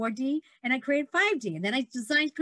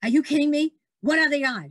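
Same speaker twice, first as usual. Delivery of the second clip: retold disbelief; 6 dB louder than usual. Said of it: "he says".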